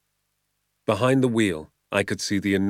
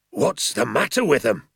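loud, raised bluster; shouted; 4 semitones higher, 3 dB louder than usual. A narrator's reading. Landowner shouting at the father about his pheasants. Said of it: "he shouted".

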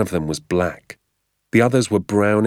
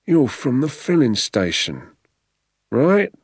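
higher, jabbing with a sharp rising right; sneering keeper; 7 semitones higher than usual. Acted. Keeper interrogating the father, sneering and pushy. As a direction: accuse him, pushing for an answer.

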